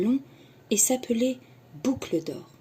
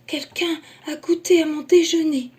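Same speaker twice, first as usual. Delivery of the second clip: soft voice; 9 semitones higher, 7 dB louder than usual. Acted. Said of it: "de sa voix douce".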